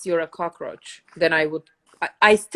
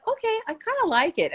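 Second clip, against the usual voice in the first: much higher, fast coy giving in; 12 semitones higher, faster than usual. Retold or imitated. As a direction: chirp it out, won over at last. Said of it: "I'm like".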